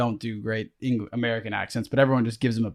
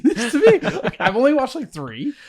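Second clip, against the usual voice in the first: words breaking up into laughter; laughing; 12 semitones higher than usual. Real, not acted. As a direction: get the giggles mid-sentence. Laughing at own anime experience.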